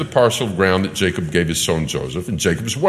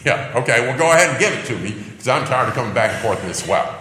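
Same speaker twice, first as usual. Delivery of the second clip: sarcastic; 3 semitones higher, 4 dB louder, faster than usual. Retold or imitated. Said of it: "I would suspect this is sarcasm".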